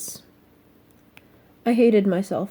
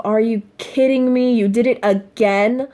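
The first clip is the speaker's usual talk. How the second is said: mock disapproval. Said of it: "that look of".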